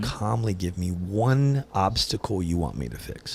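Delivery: slow, measured, even delivery; calm. Shown as a demonstration. Man asking his partner for one task, slow and calm. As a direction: spell it out calmly and slowly. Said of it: "calmly come at me".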